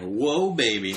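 lightly hammed-up leering exclamation; mock ogling. Podcaster voices reaction to two hot neighbors, mock ogling. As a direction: swoop up high on a playful catcall.

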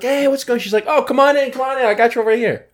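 high, bright imitation of the friendly hostess; high mock greeting. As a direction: pitch it up as the welcoming hostess. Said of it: "I was like".

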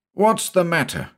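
high-pitched friendly query; amiable surprise. A narrator's reading. Story writer roused by a scream, amiably surprised. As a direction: ask it in pleasant surprise. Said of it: "with a look of amiable surprise".

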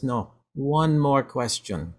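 lightly put-on Russian accent, drawn out. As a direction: say it slowly with a hint of mock Russian. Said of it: "that's my Russian accent right there".

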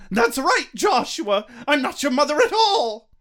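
mock dramatic reveal. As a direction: reveal it with relish.

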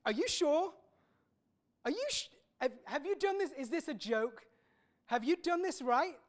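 can't believe the pay he got; outraged worker checking the sums; indignant disbelief. Acted. First hired worker protests pay.

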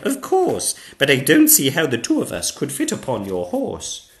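put-on high, loud girlish reply; young princess. Pearl replies.

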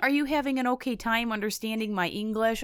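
lightly mocked Moldovan accent; imitating fake Moldovan accent. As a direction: mimic someone slipping into a Moldovan accent. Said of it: "going in and out of a Moldovan accent".

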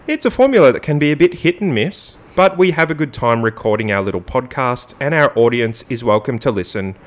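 emphatic, mock-formal statement read; sexy radio voice. Host reads co-host's mock apology to James, radio voice. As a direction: lift the start of each phrase, then settle down. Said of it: "get it in my sexy radio voice".

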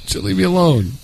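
high laughing fake tantrum; hammed-up cranky protest; mock grumpy denial. The speaker playing along, pretending to snap awake in a hammed-up voice. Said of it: "Roy, are you sleeping?".

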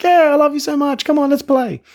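put-on very high, gushing baby talk; high excited dog voice. Owner gushing at dog on the couch, squeaky high baby talk. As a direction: gush over the dog like a toddler. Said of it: "you're like".

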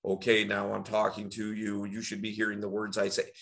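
low, robotic level drone; monotone. Shown as a demonstration. Coach showing what monotone is, droning and level. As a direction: hold every word on one low, unchanging note. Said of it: "it's monotone".

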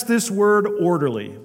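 "orderly" given firm emphasis; stress on orderly. Real, not acted. Preacher stressing a word to the congregation, "orderly" emphasized. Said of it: "I want to emphasize and stress".

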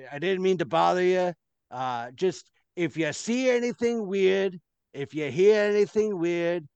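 a touch of an awkward, apologetic guard; guard fumbling to save face; lightly voiced guard. Guard flirts awkwardly with the maid, mildly voiced.

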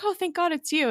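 high-pitched imitated gasp of relief; mock relief. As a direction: quote someone hugely relieved. Retold relief at a friend arriving.

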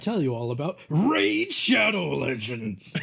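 hammed-up ad pitch, swelling on the brand name; mock sponsor read. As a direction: parody a sponsor plug with big announcer flourish. Mock sponsor read during a break.

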